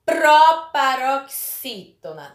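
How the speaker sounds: slow, loud "proparoxítona" in separate chunks; teacher spelling out "proparoxítona" by ear; syllable-by-syllable. Shown as a demonstration. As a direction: stretch out "proparoxítona" piece by piece, firmly. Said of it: "Quando a sílaba mais forte for a antepenúltima".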